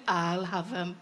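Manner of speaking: low, quick, keen grab; eager friend. Retold or imitated. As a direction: mimic the friend snapping up the offer. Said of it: "my friend went".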